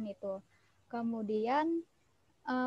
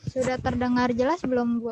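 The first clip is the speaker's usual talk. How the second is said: speaking up, louder than before; 10 dB louder than usual. Real, not acted. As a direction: raise the voice so all can hear. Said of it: "suaranya, eh, terlalu kecil".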